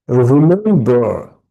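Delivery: "রিমেম্বার" slow, swelling on the middle syllable; middle-syllable stress. Shown as a demonstration. Teacher sounding out stress for students in "রিমেম্বার". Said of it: "the stressed syllables".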